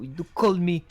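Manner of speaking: put-on British accent. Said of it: "turn British again".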